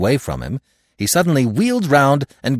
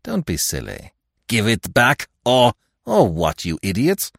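mocking retort. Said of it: "cried Lupin".

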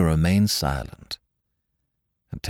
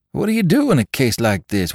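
higher worried question; anxious question; 8 semitones higher, 3 dB louder than usual. Acted. Drummer asks the men, higher and worried. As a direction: ask it straight, worried. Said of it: "drummer asks".

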